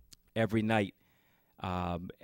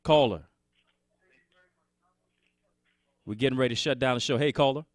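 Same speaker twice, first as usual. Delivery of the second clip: calling out; 5 semitones higher, 7 dB louder than usual. Real, not acted. Host calling to silent caller.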